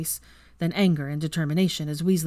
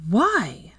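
firm; 6 semitones higher, 5 dB louder than usual. Acted. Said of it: "started in a firm voice".

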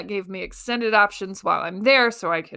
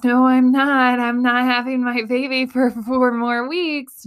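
higher, louder protest of disbelief; indignant disbelief; 4 semitones higher, 4 dB louder than usual. Retold or imitated. Telling the doctor, mock indignant disbelief. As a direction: push back, sure it can't be true. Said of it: "And I was like".

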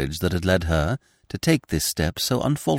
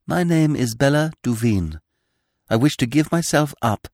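put-on resolute young woman; 6 semitones higher than usual. A narrator's reading. Girl confesses before the magistrate.

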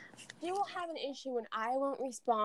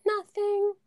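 sulky whisper; 8 semitones higher, 5 dB louder than usual. Retold or imitated. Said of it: "She's like".

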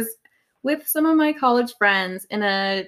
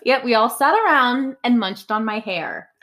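sarcastic. Real, not acted. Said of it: "That was sarcasm".

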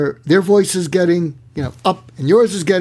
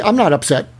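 higher-pitched, mock protest; defensive denial; 5 semitones higher than usual. Coach acts someone denying the feeling, defensively. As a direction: push back with mild indignation. Acted denial of being upset.

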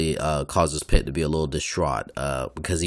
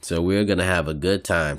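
talking through a yawn; words stretched by a yawn. Real, not acted. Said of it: "Sorry, I just yawned".

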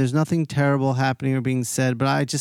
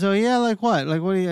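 higher, louder mock tough guy; curious big guy; 7 semitones higher, 3 dB louder, faster than usual. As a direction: lightly play the big guy perking up, pitched up. Big guy asks what he draws.

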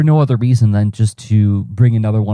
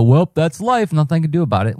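higher-pitched mock resignation; resigned shrug; 7 semitones higher than usual. Imagining throwing up your hands at a setback, mock resigned. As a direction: toss it off as a breezy give-up. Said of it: "throw up your hands and go".

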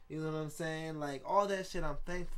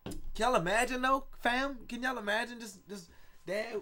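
excited; 7 semitones higher, 4 dB louder than usual. Real, not acted. Excited picturing dad with locks.

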